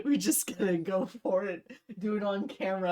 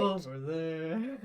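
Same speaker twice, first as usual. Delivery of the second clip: slow, low mocking "Over there"; mock stern order; 4 semitones lower, much slower than usual. Mocking Grey's command again, slow and low. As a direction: drag "Over there" out slowly to mock him. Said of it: "I order".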